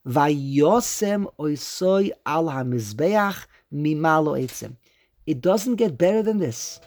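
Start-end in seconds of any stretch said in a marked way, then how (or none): 0.1-4.8 slow verse reading. Shown as a demonstration. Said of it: "it says".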